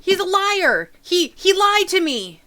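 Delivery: put-on high, loud accusing child; angry tattling kid. Kid accusing the adventurer to his mom, loud. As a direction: point and yell it out.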